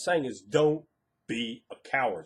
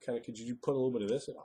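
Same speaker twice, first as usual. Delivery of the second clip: softer, hesitant mock-timid ask; sheepish, timid; 6 dB quieter than usual. Player timidly asking the GM for a little something, sheepish. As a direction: shrink back and ask for a small favour. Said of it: "they're all sheepishly, timidly go".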